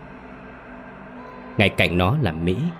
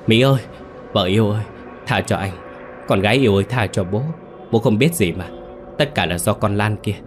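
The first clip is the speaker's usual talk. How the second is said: desperate begging. Acted. Husband begging his ghost wife for mercy, terrified. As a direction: beg for your life in terror. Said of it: "Điệp gào thét trong đau đớn, miệng liên tục xin tha".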